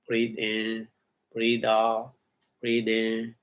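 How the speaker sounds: even, measured breathing cues with short pauses; level, rhythmic practice demonstration; continuous breathing count. Shown as a demonstration. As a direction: pace it like steady breaths in and out. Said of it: "continuously like this".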